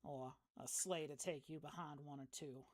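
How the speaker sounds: easygoing country neighbour, lightly played; lightly voiced folksy local woman. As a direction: play a friendly backwoods local, understated. Game master voices departing local woman.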